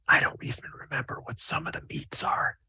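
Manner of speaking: hushed secretive whisper. Acted. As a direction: whisper it like a confession. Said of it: "he whispers to you".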